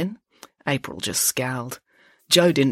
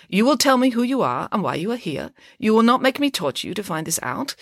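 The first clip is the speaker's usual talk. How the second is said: higher-pitched, firm demand; stern interrogation; 7 semitones higher than usual. A narrator's reading. Ingrid interrogating Georgia under her knee, stern. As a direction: lay down the threat firmly.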